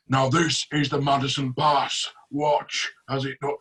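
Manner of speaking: slow, drawn-out Jon Snow-style voice; imitated magician's slow card-trick patter; Daniel Madison. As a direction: talk slowly, like Jon Snow. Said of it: "talks like Jon Snow".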